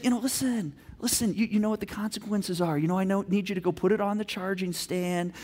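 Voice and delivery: calm, unheated instruction; low-energy firmness. Acted. Dad telling daughter to put phone away, calm. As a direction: answer evenly without taking the bait. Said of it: "I don't need to bring energy".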